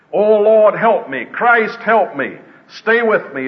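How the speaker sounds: a preacher voicing a dying man's plea; desperate deathbed cry. Preacher retelling Tom Paine's deathbed plea, desperate and pleading. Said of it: "listen to some of their deathbed cries".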